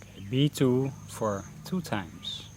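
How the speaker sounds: unhurried meditation guidance with long pauses; guided meditation. Real, not acted. Teacher leading beginners through a mindfulness breathing session, guided meditation voice. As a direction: guide them gently into breath focus, pausing between phrases.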